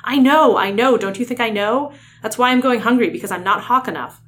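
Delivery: high, loud acted protest, easing as it goes; exasperated outburst. Tobias admitting he is going hungry, exasperated outburst. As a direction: burst out in frustration. Acted quarrel in dramatic reading.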